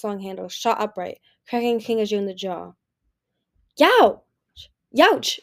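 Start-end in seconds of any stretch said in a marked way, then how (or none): 3.8-5.4 high, loud howl of pain; pained roar. A narrator's reading. Kinkajou cracked in the jaw, roaring in pain. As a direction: roar it out as if struck. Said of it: "Kinkajou roared".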